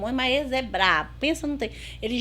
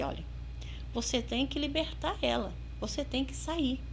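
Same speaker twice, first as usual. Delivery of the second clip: conversational; 8 dB quieter than usual. Retold or imitated. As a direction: talk to it quietly, as to a friend. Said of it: "assim, conversando". (em tom de conversa, baixinho)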